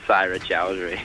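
low, lingering name drop; sleazy purr on the name; perverted tone. Real, not acted. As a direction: say the name suggestively. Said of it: "You said that really perverted way".

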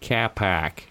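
low, soft mimicked Boston accent; Boston accent on "Car park", flattened vowels; mock Boston accent. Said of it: "That's Boston".

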